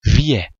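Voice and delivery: Wir with the final r turned into an open e-like vowel. Shown as a demonstration. Teacher demonstrates the rule on Wir, r pronounced as vowel. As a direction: say Wir as "vi-e", no r heard.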